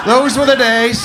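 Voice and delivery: put-on milk the line like an old-timer; hammed-up nostalgia. Repeat of punchline, bigger.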